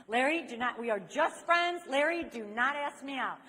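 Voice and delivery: acted-out firm refusal, pushing the pitch up; emphatic refusal. Teen telling Larry they are just friends, loud insistent refusal.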